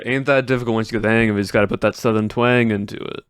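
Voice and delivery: quick, lightly voiced Southern twang; Southern accent. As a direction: toss off the catchphrase in a mild Southern accent. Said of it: "Do the Southern accent".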